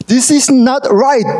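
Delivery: drawn out, pitch up and firm; slow and emphatic. Shown as a demonstration. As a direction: stamp out each word of "This is not right". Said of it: "버튼이 눌려지면".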